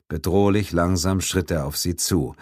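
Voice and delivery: ordinary delivery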